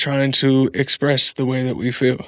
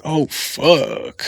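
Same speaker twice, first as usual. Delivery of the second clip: mild resigned curse. Shown as a demonstration. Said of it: "it's a lot different if somebody says".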